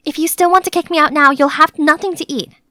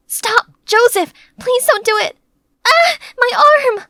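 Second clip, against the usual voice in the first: higher, louder, slow desperate shout ending in a cry; pleading shout; 9 semitones higher, 4 dB louder than usual. Acted. Maid pleading with raging Joseph, desperate shout. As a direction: beg him to stop, then cry out in pain. Begging Joseph, then hurt.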